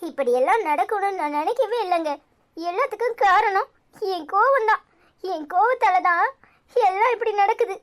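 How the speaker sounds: a wife crying to her husband, blaming her own temper; tearful self-blame. Acted. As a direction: voice rising as the tears come. Wife blames herself after quarrel.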